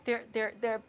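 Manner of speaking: low, soft murmur to oneself; quiet, low muttered pep talk; hushed self-calming. Real, not acted. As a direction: talk yourself down quietly, under your breath. Talks self down after being baited.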